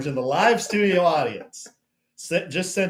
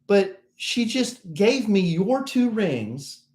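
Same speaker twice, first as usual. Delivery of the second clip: retold gushing clerk; 6 semitones higher than usual. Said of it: "They're like".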